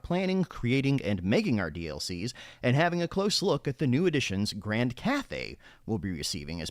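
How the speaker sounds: reading it like a newscaster; polished TV news read; news anchor voice. Shown as a demonstration. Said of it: "use my news anchor voice while doing it".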